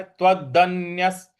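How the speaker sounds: त्वदन्यस with weight on the न; stress on half n. Shown as a demonstration. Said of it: "आधा न है उस पर हमको आघात देना है". (आधे न पर आघात)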